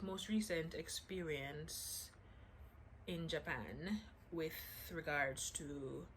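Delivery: lightly put-on British accent, not very good; playful British accent. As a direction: slip into a half-hearted British accent. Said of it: "The British accent is back".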